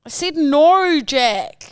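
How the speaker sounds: high, exaggerated Australian vowels; broad Aussie take on a singer's refusal; an Aussie version of a famous singer. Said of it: "the Aussie Amy Winehouse".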